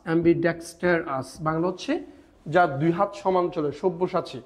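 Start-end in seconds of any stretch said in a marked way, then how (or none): 0.1-1.3 ambidextrous slowly, in separated syllables; broken up. Shown as a demonstration. Teacher showing a hard word, slowly broken up. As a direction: pause between am-bi, dex, ter and ous in ambidextrous. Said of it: "ভেঙে ভেঙে যদি উচ্চারণ".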